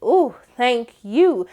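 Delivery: slow, cooing thank you; sultry thanks. Pretend. Constance thanking Mallory for the car, slow coo. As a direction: coo it slowly. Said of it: "she looked back at her like".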